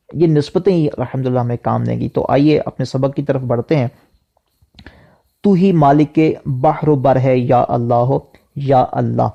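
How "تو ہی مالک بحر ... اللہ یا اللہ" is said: melodic devotional recitation of the verse; recited hamd verse. Shown as a demonstration. Teacher reciting the hamd verse for students, melodic recitation. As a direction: chant it like a naat reciter.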